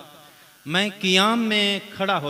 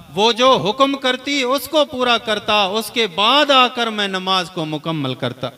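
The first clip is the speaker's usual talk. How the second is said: fervent, higher sermon delivery; impassioned preaching; 4 semitones higher than usual. Acted. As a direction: pitch climbing with each clause.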